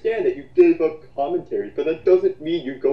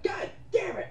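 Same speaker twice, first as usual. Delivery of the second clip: laughing curse; 8 dB quieter than usual. Real, not acted. Ruined his own trolling joke.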